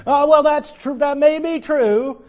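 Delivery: amused laughing admission. Real, not acted. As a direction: concede it through laughter. Laughing after quoted rhyme.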